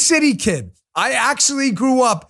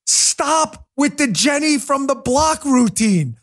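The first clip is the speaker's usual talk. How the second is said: ordinary talk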